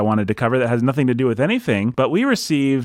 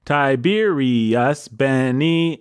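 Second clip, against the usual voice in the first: metered sounding-out; 3 semitones higher, much slower than usual. Pretend. Fitting names into metered verse.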